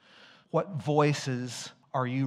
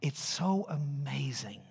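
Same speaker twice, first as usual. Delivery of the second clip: hushed; 5 dB quieter than usual. Real, not acted. Reverent hush continues.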